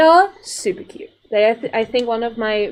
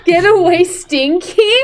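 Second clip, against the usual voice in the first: squeaky voice; 6 semitones higher, 7 dB louder, slower than usual. Retold or imitated. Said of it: "repeating the creature line".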